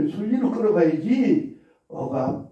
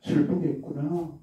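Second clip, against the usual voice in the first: tender empathy; 6 dB quieter than usual. Shown as a demonstration. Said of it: "이런 걸 이제 공감하는 건데".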